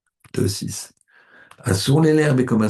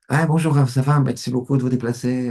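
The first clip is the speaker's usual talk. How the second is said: overly polite greeting; 4 semitones higher, 3 dB louder than usual. Retold or imitated. Host greeting the rabbi.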